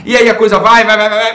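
rising, loud and fired up; excited. Real, not acted. Building hype about helping.

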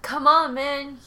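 loud, high mock yell; road-rage scream. Taxi driver stuck behind bad driver, mock screaming. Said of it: "he was screaming".

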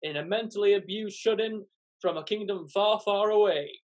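dating show host presenting contestants; game show host. Acted. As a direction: introduce her like a TV host. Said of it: "acts like a game show host".

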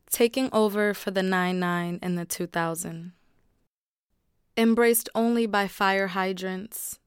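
measured spoken-word delivery; spoken word poem read aloud; poetry reading. Acted. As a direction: perform the poem for the room. Reads her poem aloud.

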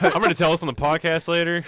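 playacted line through laughter; laughing mock quote. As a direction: laugh as you voice the prankster. Joking quote while everyone laughs.

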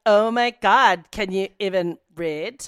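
put-on ditzy Valley girl demo. Shown as a demonstration. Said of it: "let's start with, like".

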